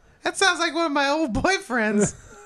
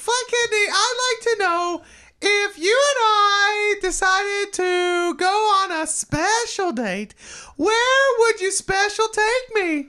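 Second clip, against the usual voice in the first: higher, put-on contestant voice; silly contestant voice; 5 semitones higher, slower than usual. Ann answering the host in a silly put-on voice. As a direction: play a gushing game show guest. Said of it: "I don't sound like this".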